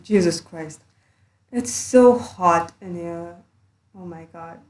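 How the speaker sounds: muffled under a blanket. Real, not acted. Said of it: "I'm recording under a blanket".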